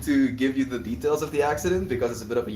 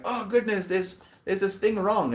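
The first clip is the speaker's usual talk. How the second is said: much higher, fussing over the toy; a high play-acting voice fixing the little figure; squeaky high mock fret; 10 semitones higher than usual. Playing with the Uncle Becky figure, high fussing voice.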